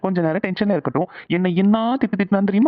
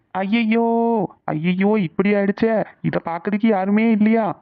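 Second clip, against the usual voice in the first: raised, drawn-out wailing calls for help; fake alarmed shouting; 2 semitones higher, much slower than usual. Prankster calls sleeping Janani with a fake emergency, mock-panicked shouting. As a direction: pretend panic, crying out to wake someone. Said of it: "இப்ப எதுக்கு நீ இப்படி கத்துன".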